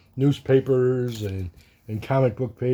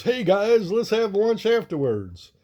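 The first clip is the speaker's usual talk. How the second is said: barrel guy voice; 8 semitones higher than usual. Retold or imitated. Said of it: "the guy in the barrel goes".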